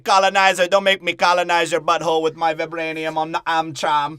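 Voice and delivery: loud, hammed-up threat; loud mock threat; mock bellow. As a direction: bark it like a pumped-up action hero. Voicing hobbit character.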